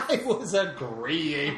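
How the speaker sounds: whining, drawn-out protest; whiny voice. Real, not acted. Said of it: "I don't want your whiny little voice".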